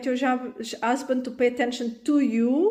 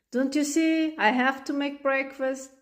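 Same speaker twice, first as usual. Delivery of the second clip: exasperated; 4 semitones higher than usual. Acted. Mom repeats, exasperated.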